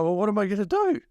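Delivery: high-pitched mock-helpless plea; exasperated protest. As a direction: act out a kid protesting to mum. Acts out child's protest to mum.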